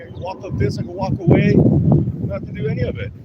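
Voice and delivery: rising into a loud, high angry shout; building from firm to an all-out yell of defiance; getting worked up. Real, not acted. Ranting that he has nothing to prove, getting worked up. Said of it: "see, I'm getting worked up".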